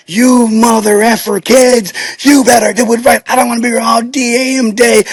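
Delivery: imitating angry yell. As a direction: snap at the kids like a grumpy star. Henry Fonda yelling at kids.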